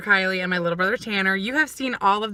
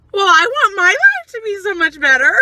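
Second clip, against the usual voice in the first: higher, louder whiny declaration; mock exasperated whine; 11 semitones higher, 8 dB louder than usual. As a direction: exaggerate your own complaint, hammed-up. Quoting herself in car argument.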